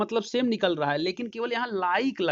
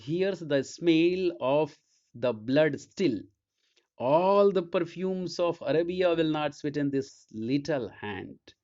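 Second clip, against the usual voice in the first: slow, weighty reading of a Shakespeare line; slow theatrical reading of Lady Macbeth's words; dramatic recitation; much slower than usual. Acted. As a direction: draw the verse out slowly like a stage speech.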